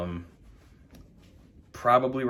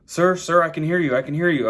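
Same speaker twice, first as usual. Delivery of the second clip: louder, higher, a retold agent calling down the line; mock calling out; 5 semitones higher, 4 dB louder than usual. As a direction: call "sir, sir" as if checking the line is open.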